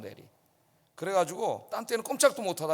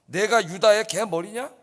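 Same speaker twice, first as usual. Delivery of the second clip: louder, slow offended question on 유다의; indignant retort; 5 dB louder than usual. Acted. General answering the king, indignant and loud. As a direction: throw the insult back at the king. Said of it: "분하여 그랬습니다".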